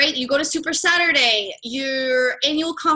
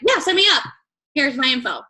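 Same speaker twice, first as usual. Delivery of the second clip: mock eager signup; faster than usual. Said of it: "they're like".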